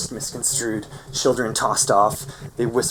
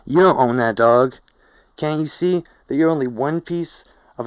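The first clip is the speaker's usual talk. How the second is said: high, raised-voice rant; shouted harangue; 6 semitones higher, 5 dB louder than usual. A narrator's reading. Felix haranguing a lady with a dog, shouting. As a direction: preach loudly at a passer-by. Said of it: "Felix shouts as she strolls by us".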